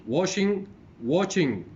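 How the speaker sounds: clearly separated words, second one falling; teacher's model pronunciation; repeated word pair. Shown as a demonstration. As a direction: repeat the minimal pair for the class.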